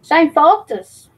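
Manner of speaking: slow drawn-out Cali voice. Retold or imitated. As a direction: stretch the name out like Cali. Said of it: "in the Cali voice for Matt Man".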